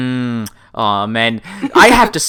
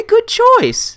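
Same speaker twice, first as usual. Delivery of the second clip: excited; 3 dB louder than usual. Real, not acted. Approving the song pick.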